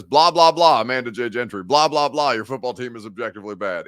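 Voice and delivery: lightly mocking show-host read, punchy blahs; lightly hammed-up host voice; Buck Rising voice. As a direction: read it like a host's sponsor plug, punched then easing off. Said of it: "In my Buck Raising voice".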